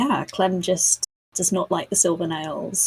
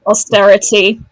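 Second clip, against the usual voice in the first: mock outrage; 3 semitones higher, 11 dB louder than usual. Joke punchline.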